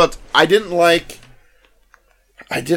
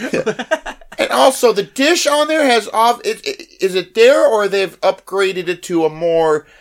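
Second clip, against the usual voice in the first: higher, eager nerd asking a fussy question; nerdy fan voice; 6 semitones higher, slower than usual. Retold or imitated. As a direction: play the pedantic Star Wars fan, pitched up.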